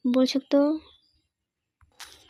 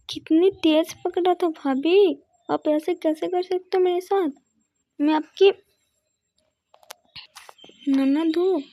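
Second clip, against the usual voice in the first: put-on whiny young girl; 3 semitones higher than usual. Girl complains to her mother about her sister-in-law, whiny and higher. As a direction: wail at mother about the pain.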